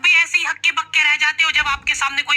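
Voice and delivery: upbeat app promo delivered with punch; sponsor ad read. Acted. Pitching a language app to viewers, emphatic ad read.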